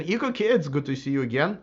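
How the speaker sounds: hoarse, voice giving out; strained, fading voice; losing voice. Real, not acted. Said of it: "I'm losing my voice now".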